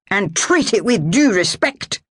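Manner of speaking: menacing Highland snarl at a prisoner. A narrator's reading. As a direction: snarl it as a warning, Scots voice. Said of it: "he snarled".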